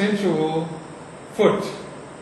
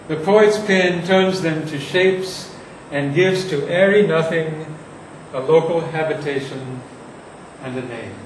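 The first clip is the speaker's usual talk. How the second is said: poetry reading. Shown as a demonstration. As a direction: read the verse to the class, weighing each line. Reads Shakespeare passage aloud.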